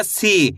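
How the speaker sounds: "सी" with the ee held long; drawn-out long ee. Shown as a demonstration. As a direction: stretch the vowel in "सी" like a teacher. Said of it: "खींच के पढ़ेंगे". ("सी" को खींच के बोलो)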